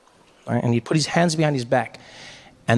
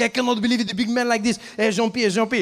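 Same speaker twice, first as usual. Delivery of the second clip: mocking French father; 7 semitones higher than usual. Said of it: "he's like".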